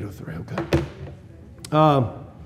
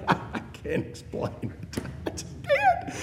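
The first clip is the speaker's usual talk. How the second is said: laughing with joy; 13 semitones higher, 10 dB quieter than usual. Real, not acted. Overjoyed laughing about God.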